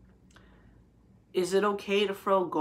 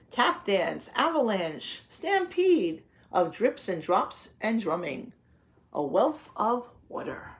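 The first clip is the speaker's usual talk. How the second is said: lilting read-aloud of a poem; reading a picture book; slower than usual. Acted. Teacher reading a rain poem aloud to her class, lilting. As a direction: read it like a storybook to children.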